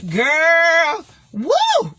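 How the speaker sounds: high, loud whoop; excited whoop. Real, not acted. Whooping to the girls over the joke. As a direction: let out a delighted woo.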